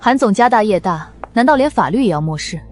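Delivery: loud, high-pitched challenge; indignant accusation. Acted. Confronting Han over ignoring the law, loud and indignant. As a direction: raise your voice and challenge him.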